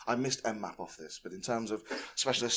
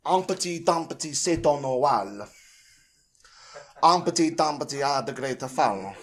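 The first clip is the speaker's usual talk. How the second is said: louder, hammed-up stereotypical French accent; 4 semitones higher, 8 dB louder than usual. Reading Humpty Dumpty to the crowd in a stereotypical French accent. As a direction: ham up a French accent for the punchline. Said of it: "I'll read it out in a very stereotypical French accent".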